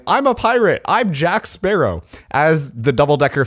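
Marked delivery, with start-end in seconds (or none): 0.0-2.0 pitched-up, drawn-out imitation of yelling; half-hearted pirate proclamation, slowing on the name; mild mock yell. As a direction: quote the yelling without really raising volume. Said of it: "started yelling".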